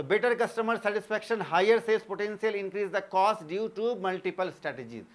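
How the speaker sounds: very slow, evenly spaced words for note-taking; teacher dictating notes word by word; slow dictation. Acted. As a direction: read it out slowly so students can write. Reads English feature list as dictation.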